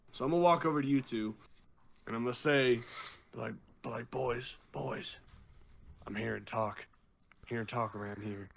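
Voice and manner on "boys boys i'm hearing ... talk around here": put-on southern drunk accent. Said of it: "gonna go to the southern accent".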